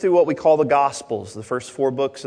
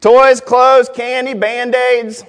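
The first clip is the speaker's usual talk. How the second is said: loud, high list slowing down at the end; preaching shout; 10 semitones higher, 10 dB louder, much slower than usual. Acted. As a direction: hammer each item to the crowd.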